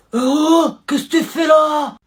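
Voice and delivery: loud, high, drawn-out exclamation; shocked challenge. Acted. Bursting in on the boy, loud shocked challenge. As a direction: catch him in the act.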